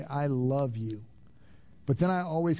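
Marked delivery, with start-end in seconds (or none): 0.0-1.0 tender I love you. Shown as a demonstration. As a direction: say I love you like you mean it one-on-one. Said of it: "I sit down and I say".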